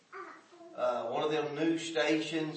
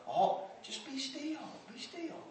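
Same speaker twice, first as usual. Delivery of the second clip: higher, much softer, slow; soft "be still"; 11 semitones higher, 5 dB quieter than usual. Acted. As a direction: coax them gently into stillness. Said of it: "softly repeated counsel".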